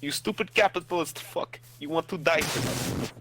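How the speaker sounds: mock threatening Russian accent; heavy Russian accent menace. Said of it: "Stop talking like you're from Russia".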